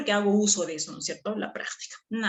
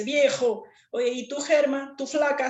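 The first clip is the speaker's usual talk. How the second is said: friend greeting; 6 semitones higher than usual. Retold or imitated.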